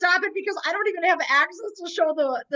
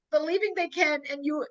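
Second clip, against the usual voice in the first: normal talking voice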